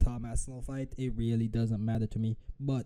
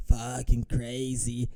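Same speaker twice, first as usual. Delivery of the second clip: mock quote; 3 semitones lower, slower than usual. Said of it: "the champ of your division saying".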